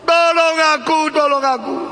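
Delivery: high, loud cry for help from a pit; shouting for help. Retold or imitated. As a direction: yell up out of the hole. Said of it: "Maka dia mulai teriak".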